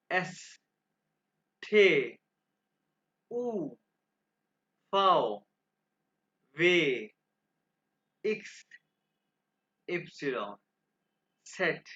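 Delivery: isolated letter names from "एस" to "सेट"; German alphabet demonstration. Shown as a demonstration. Teacher pronouncing the alphabet for students to repeat, careful model. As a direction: give each German letter clearly, pause between. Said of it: "मैं आपके सामने दो दफ़ा pronounce करूंगा".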